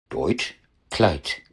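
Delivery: Deutsch and Kleid with a hard voiceless t sound at the end; final devoicing. Shown as a demonstration. Teacher illustrates final devoicing, voiceless-ending demo. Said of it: "werden am Wortende stimmlos".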